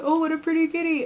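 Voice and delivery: high, delighted pet-talk voice; cooing at a cat. Pretend. Someone meeting a deadly cat, cooing in delight. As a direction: gush loudly and quickly in a high pitch.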